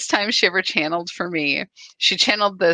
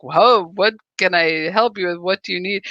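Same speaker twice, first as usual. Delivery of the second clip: put-on light Scottish accent; 4 dB louder than usual. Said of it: "big Scottish accent".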